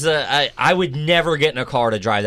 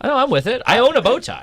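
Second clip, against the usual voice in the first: high mock cool voice; 9 semitones higher than usual. Mock cool guys bragging.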